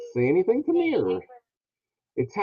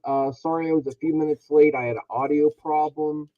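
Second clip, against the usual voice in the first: underwater; 5 dB louder than usual. Real, not acted. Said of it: "You kinda sound like you're underwater".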